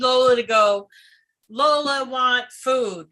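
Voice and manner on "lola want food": slow, simple doggy voice; cartoon dog. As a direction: voice the dog asking for food. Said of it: "she says hello in her doggy voice".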